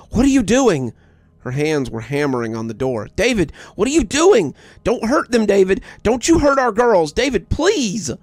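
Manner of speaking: high, loud frantic screams; screaming. A narrator's reading. Mother screaming at husband through the door, frantic. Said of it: "My mother's voice rose to a scream".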